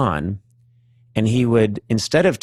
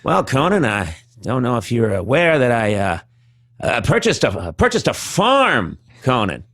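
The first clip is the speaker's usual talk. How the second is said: Norm impression. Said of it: "And he'd be like".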